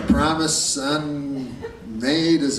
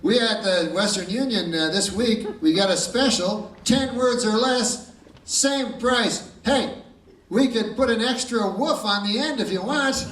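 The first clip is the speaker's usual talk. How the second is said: salesman telegraph clerk; 6 semitones higher than usual. Acted. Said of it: "He goes".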